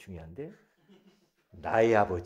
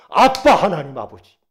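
ordinary talk, nothing marked

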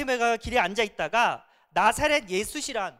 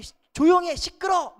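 annoyed hush; 8 semitones higher, 8 dB louder than usual. Retold or imitated. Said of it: "사람들이".

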